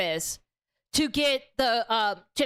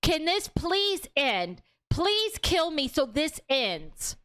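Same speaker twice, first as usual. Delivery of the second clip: pleading; 3 semitones higher, slower than usual. Retold or imitated. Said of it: "She's pleading with him".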